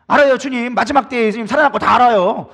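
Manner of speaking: sulky reply. Retold or imitated. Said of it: "삐져가지고 얘기하죠".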